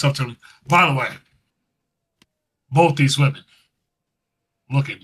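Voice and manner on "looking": lightly voiced Vince McMahon, low and hushed; a hint of Vince McMahon's breathy praise; Vince McMahon impression. Wrestling podcaster mimicking Vince McMahon's backstage praise. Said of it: "You sound like Vince right now".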